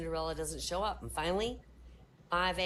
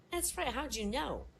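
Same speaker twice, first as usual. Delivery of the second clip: astonished; 9 semitones higher than usual. Acted. Joe astonished.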